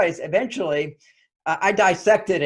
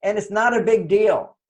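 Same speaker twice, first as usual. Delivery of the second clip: laughing demo; 3 semitones higher than usual. Shown as a demonstration.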